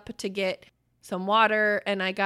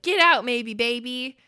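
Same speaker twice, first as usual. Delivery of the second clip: mock yell; 4 dB louder than usual. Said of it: "yelling at them or whatever".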